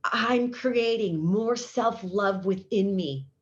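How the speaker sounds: slow, deliberate self-affirmation. Shown as a demonstration. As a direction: speak the affirmation slowly, letting each word land. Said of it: "this is what you do".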